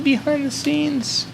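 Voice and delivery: squeaky drawn-out falsetto; very high slow voice. Pretend. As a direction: stretch it way up and slow. Repeats it, higher and slower.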